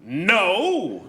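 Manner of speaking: heroic firm no; a hint of a stern superhero; superhero refusal. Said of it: "my impression of a superhero".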